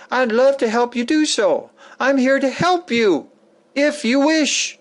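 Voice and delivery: a touch of sincere tenderness; humble person. Retold or imitated. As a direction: kindly reassure the listener. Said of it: "The truly humble person".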